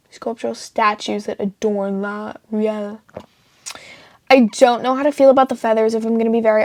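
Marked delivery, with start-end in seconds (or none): 0.1-3.0 soft whispered read; whispering. Real, not acted. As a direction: whisper it under breath. Whispered reading.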